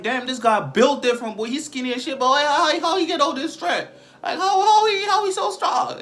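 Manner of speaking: high, loud panicked stammer; mock scared. Bullies shocked by skinny guy's strength, mock panic. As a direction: climb into hammed-up alarm, tripping over words. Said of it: "And they got scared".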